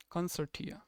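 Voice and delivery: "Consortia" said with a T, not CH; T-sound pronunciation. Shown as a demonstration. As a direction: repeat "Consortia" as con-SOR-tee-a. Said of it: "there is two way how British pronounce".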